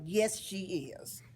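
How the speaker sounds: slow, drawn-out firm insistence; imitating Mom's slow, emphatic verdict; firm mother. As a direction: overrule him slowly and firmly, as Mom. Retold mother overruling the lenient father.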